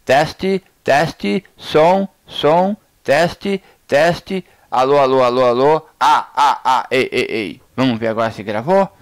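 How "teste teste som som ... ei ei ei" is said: loud calls, pitch raised on the test words; loud repeated sound check; mic test calls. Shown as a demonstration. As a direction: keep testing loudly at the mic. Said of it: "vou diminuir um pouquinho o volume".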